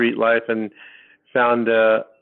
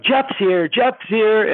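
higher, urgent and wound up; frantic insistence; 10 semitones higher, 3 dB louder, much slower than usual. Retold or imitated. To rocking concert friends, urgent high-pitched insistence. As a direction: insist it like you've seen a ghost.

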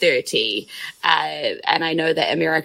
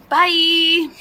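put-on cheeky kid voice; 5 semitones higher than usual. Boy voiced dismissing the speaker.

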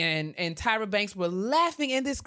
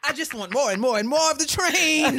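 laughing; 5 semitones higher, 5 dB louder than usual. Retold or imitated. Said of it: "he was like".

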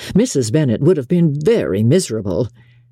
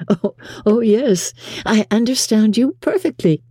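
put-on higher-pitched, assured young lady; lightly voiced playful reply; 8 semitones higher than usual. A narrator's reading. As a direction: answer lightly in a lifted voice. Elizabeth replies playfully to Bingley.

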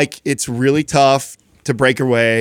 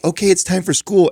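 coaxing parent; 7 semitones higher than usual. Retold or imitated. Mother voiced coaxing child to school.

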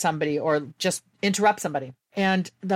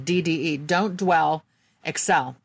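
paced like a personal motto; D D E, don't dwell, excel as a calm mantra; mantra said slowly; slower than usual. Shown as a demonstration. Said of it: "that was me saying".

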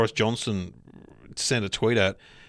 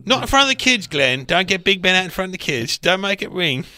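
higher, louder mock telling-off; mock scolding parent; 6 semitones higher, 3 dB louder than usual.

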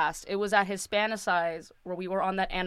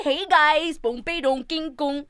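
higher, louder brash put-on voice; over-the-top party-girl voice, pitched up; mock loud Cuban persona; 6 semitones higher, 4 dB louder, slower than usual. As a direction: ham up the loud Miami character fans expect. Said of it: "talk like this".

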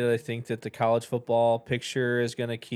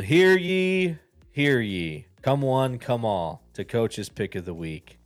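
town crier; 4 dB louder, slower than usual. Pretend. Mock proclamation announcing his pick.

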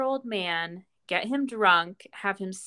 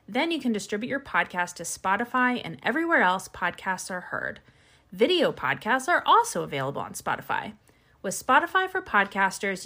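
upbeat sponsor read. Acted. Host reading a sponsor ad, upbeat and bright. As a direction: sell the app brightly to listeners.

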